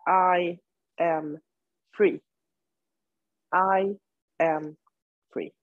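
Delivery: one word at a time, with pauses; mantra recitation. Shown as a demonstration. Teacher shares her mantra with the yoga class, measured recitation.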